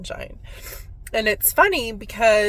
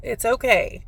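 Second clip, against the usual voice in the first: a high, breaking plea that eases as it goes; retold crying, gently letting her go; tearful goodbye; 6 semitones higher than usual. Telling her dying mom it's okay to go, tearful. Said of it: "I was hysterically crying".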